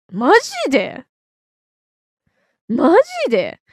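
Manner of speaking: surprised. Real, not acted. Reacting to surprising fact.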